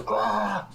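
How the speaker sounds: a monster shrieking in agony; burning scream. Acted. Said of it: "So he screams in agony".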